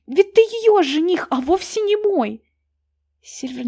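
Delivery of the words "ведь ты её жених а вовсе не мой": loud, much higher tearful cry; tearful shout. A narrator's reading. Таня кричит Сильверу сквозь слёзы. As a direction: shout it through angry tears. Tanya still shouting through tears.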